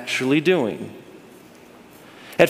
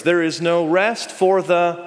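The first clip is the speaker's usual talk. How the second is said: prompting congregation; slower than usual. Shown as a demonstration. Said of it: "I need you to yell".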